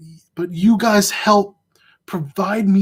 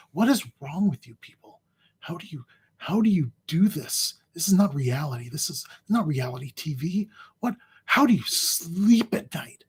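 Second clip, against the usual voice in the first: Jon Stewart rant; 5 dB quieter than usual. Pretend. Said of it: "I might do like Jon Stewart on Crossfire".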